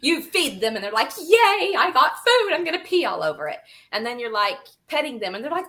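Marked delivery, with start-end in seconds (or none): 1.2-3.6 higher and louder, a giddy pet; gleeful fox voice. Pretend. Voicing her Arctic fox excited about its food. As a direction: squeal it like a delighted fox, then rush.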